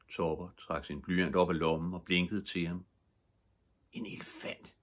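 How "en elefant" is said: whispered secret. A narrator's reading. Topper whispering his next drawing idea to Viggo. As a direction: whisper it conspiratorially. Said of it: "hviskede han".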